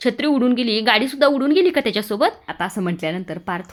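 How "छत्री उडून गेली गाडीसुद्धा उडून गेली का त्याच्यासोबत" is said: mock his excuse; mother sarcastically mocking the son's excuse; sarcastic disbelief.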